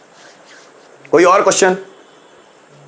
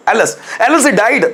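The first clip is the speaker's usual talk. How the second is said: sorrowful exclamation; 4 semitones higher, slower than usual. Shown as a demonstration. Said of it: "दुख प्रकट करने के लिए".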